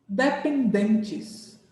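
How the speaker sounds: slow, stretched-out 'dependentes'; drawn-out key term. Real, not acted. Teacher giving students the key difference, slowly drawn out.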